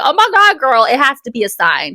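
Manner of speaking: put-on high, loud gushing girl; excited friend. Receptionist agreeing it's a sign, high excited gush.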